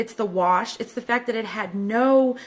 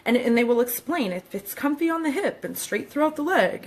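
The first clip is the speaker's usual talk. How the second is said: product announcer read; 4 semitones higher than usual. Pretend. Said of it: "my announcer voice sounds like that".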